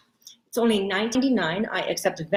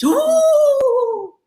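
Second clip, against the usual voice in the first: high surprised ooh; 13 semitones higher than usual. Acted. Comic exclamation.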